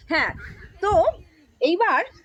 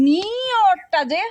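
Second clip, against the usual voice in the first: drawn-out demo; 3 semitones higher, 4 dB louder, much slower than usual. Shown as a demonstration. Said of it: "কিরম যে একটা উচ্চারণ".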